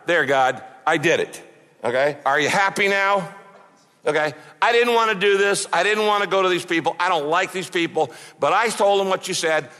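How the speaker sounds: grudging, resentful retort to God; a sulky prophet who did it under protest; sulky resentment. Retold or imitated. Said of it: "as if he's saying to God".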